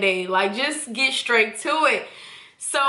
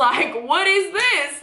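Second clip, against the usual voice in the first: laughing; 6 semitones higher, slower than usual. Real, not acted. Laughing at the letdown.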